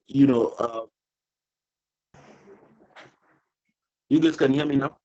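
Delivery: choppy, glitchy call audio; audio breaking up. Real, not acted. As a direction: voice cutting out on a bad connection. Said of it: "your audio is breaking up a little bit".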